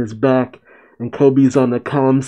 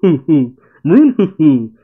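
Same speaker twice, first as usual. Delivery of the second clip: hammed-up creepy giggle, a bit louder; mock villain giggle; 4 semitones higher, 4 dB louder than usual. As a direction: play the creepy villainess laughing. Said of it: "Katarina says".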